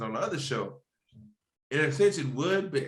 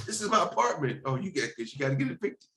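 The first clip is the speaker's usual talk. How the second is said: gruff impatient scolding; 2 semitones higher than usual. Pretend. Landlord scolding tenant.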